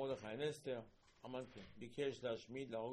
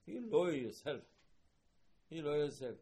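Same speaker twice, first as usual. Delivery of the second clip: indignant rebuke; 4 semitones higher, 9 dB louder than usual. Acted. Scolding Haman's pride.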